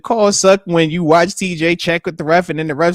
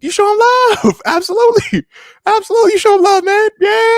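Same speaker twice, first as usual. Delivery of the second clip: laughing emphasis; 4 dB louder than usual. Real, not acted. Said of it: "laughing emphasis".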